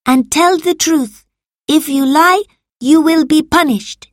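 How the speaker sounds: loud, high warning; stern threat. A narrator's reading. Marcus warning Salvius not to lie, stern threat. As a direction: threaten a suspected liar.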